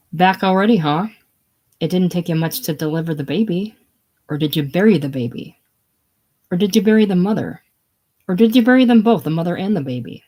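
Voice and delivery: needling questions building to a loud peak; mounting sarcastic attack; taunting accusation. Acted. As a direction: goad him harder with each question, rising in pitch and volume. Leona taunts Doc with escalating accusations.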